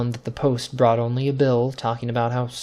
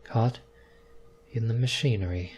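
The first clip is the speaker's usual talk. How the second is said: stunned repeat; 2 semitones lower, 8 dB quieter than usual. A narrator's reading. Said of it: "repeated Mister White".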